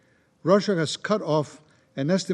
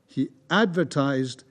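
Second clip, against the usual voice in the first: "advertised" repeated slowly for emphasis; stress on advertised; slower than usual. Real, not acted. EU speaker repeating the underlined word to the Council, "advertised" stressed slowly. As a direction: lean on "advertised", slow and deliberate. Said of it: "I underline the word".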